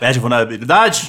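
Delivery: "vulnerabilidade" rises at the end like a question; starts sure, ends asking; rising question tune. Real, not acted. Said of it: "começou tendo certeza e terminou com uma pergunta". (entonação de pergunta no final)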